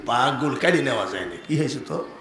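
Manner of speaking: low, soft storyteller's reply; gentle chiding. Acted. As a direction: answer the devotee quietly, voice dropped. Saint gently answers devotee in story. (নিচু গলায় মৃদু ধমক)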